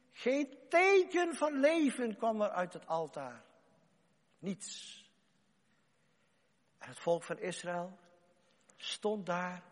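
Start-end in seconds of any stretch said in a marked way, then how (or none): 4.4-5.0 whispered nothing. Acted. No answer from the idol.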